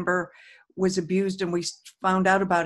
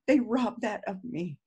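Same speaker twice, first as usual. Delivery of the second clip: hurt; 4 dB quieter than usual. Shown as a demonstration. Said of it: "whatever it is that you're feeling".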